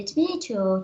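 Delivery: tomato as "chuh-MAY-ch", t softened to ch; accented pronunciation. Shown as a demonstration. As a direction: say tomato with an ay middle and ch sounds. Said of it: "we say tomato".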